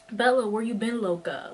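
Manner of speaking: movie line quote. Retold or imitated. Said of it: "some of the lines that we make fun of".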